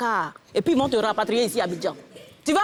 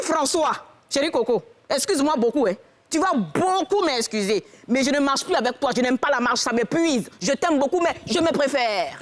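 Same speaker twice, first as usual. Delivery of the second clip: put-on French with an Ivorian accent. Wife refuses husband any more walks, Ivorian accent. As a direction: lay on the Ivorian accent, dragging the key words. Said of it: "Là, j'ai repris mon accent ivoirien".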